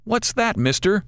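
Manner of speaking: put-on a kid pointing and asking; curious boy. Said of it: "the boy asks".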